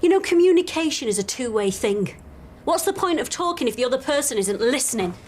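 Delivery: frustrated and pointed; exasperated. Acted. Patient rebukes doctor for not listening.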